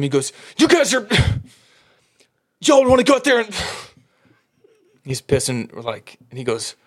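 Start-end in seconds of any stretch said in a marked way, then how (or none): 0.6-5.0 much higher and louder, breaking off mid-sentence; too furious to finish a thought, sighing; sputtering angry coach. Retold or imitated. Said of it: "he keeps starting sentences and he can't finish them".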